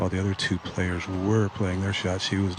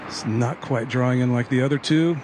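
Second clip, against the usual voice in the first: excited call; 4 semitones higher, 5 dB louder than usual. Real, not acted. Live call of ball flight.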